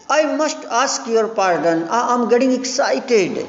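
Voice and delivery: lightly acted nervous excitement; mock excited. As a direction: read it like a man losing his nerve. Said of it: "उत्तेजित हो रहा हूँ".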